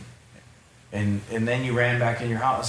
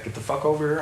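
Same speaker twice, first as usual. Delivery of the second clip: higher mock challenge, not yelled; replaying the moment he lost it, half-acted; a touch of retold anger; retold snap; 5 semitones higher, faster than usual. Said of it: "then I snapped".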